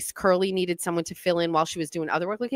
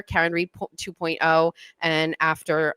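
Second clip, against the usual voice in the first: normal talking voice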